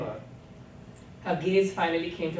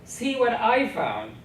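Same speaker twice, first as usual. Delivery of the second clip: laughing voice; 6 semitones higher, 6 dB louder, slower than usual. A narrator's reading. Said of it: "her voice brimming over with laughter".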